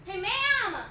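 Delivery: man yelling after women outside a club; mock yell. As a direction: shout across the street to get attention.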